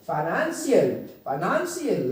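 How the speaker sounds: फाइनेंशियल with NAN stressed; फाइनेंशियल said fi-NAN-shial; stress on second syllable. Shown as a demonstration. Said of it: "अपनी आवाज़ को stress देना है".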